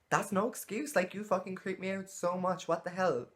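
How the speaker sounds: high-pitched disgusted outburst; outraged. Real, not acted. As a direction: let the disgust explode. Outraged at creepy message.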